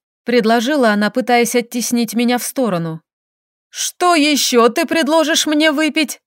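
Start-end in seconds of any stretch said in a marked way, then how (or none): 3.7-6.2 tearful laugh. Acted. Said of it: "Сквозь слёзы хохотнула я".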